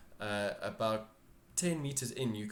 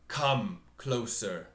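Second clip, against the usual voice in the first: slow, louder summoning; slow command; 4 dB louder, much slower than usual. Acted. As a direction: draw them in slowly. GM voices the throne figure.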